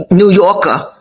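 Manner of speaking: "New Yorker" said with a New York accent; lightly put-on New York accent, "New Yorker"; mock New York accent. Shown as a demonstration. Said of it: "sorry for the accent".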